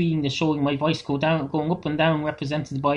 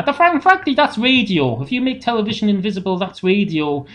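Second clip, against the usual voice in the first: exasperated rant; 4 semitones higher, 4 dB louder than usual. Acted. Comic rant, voice jumps up.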